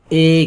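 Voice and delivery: اے as a long closed 'ay'; majhool kasra sound. Shown as a demonstration. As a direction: hold اے as 'ay', without opening to 'ae'. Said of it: "جو کہ آواز دے گی".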